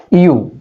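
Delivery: "ইউ" said alone as one syllable; syllable demo. Shown as a demonstration. Teacher breaking universe into syllables for students, syllable demo. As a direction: sound out "ইউ" by itself, set apart by pauses. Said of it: "এটাকে syllable করে নাও".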